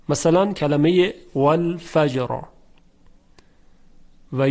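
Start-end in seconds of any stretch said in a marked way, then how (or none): 1.4-2.4 final R in والفجر said heavy. Shown as a demonstration. Teacher giving an example of the rule, heavy R in والفجر. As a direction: say والفجر with a full, thick tafkhim R.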